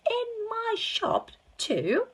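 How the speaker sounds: high, loud, amazed yell. Acted. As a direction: yell it in disbelief. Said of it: "he yelled".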